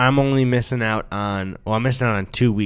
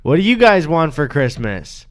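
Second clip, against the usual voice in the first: Dora-style host question; 3 semitones higher than usual. Pretend. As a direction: ask the viewers like a cartoon host. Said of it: "It'll be like Dora the Explorer".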